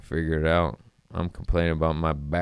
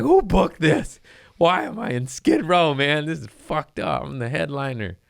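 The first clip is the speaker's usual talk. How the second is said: retold yelling; 8 semitones higher than usual. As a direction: shout it like a furious headliner. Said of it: "You start yelling at folks up top".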